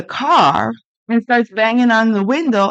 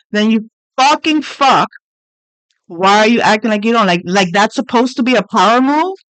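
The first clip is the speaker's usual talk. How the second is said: retold angry retort; 2 semitones higher, 4 dB louder than usual.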